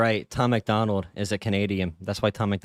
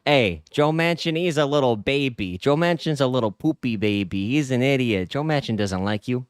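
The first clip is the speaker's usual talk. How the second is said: louder, higher jeering rally voice; mock a hothead insulting Manchin to his voters; mock campaigner taunt; 6 semitones higher, 4 dB louder than usual. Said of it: "you go to Joe Manchin's voters and you're like".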